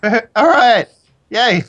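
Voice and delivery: high, giggly woman's voice; put-on woman voice. Sonya asks Katya when lessons start, giggly woman voice. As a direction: pitch it up high, amused and keen. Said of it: "I need to get into my woman accent".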